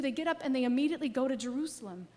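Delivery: fast, pressing forward; quick and urgent. Acted. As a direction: rush it like they can't wait. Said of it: "So what do they do?".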